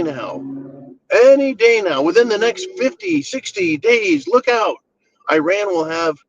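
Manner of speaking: a mocking panicky Netanyahu warning everyone; mock Netanyahu scream. Mocking a leader warning of Iran, in a shrill high panic. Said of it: "Benjamin Netanyahu screaming".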